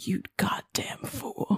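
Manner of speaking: unvoiced, slow whisper. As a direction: hiss it into his ear, slowly. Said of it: "I'll whisper in his ear".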